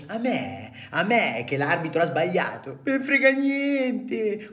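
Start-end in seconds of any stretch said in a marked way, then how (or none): 2.8-4.5 high, slow defiant yell; defiant shout. Acted. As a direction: throw it back at them.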